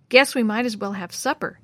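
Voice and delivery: plain reading voice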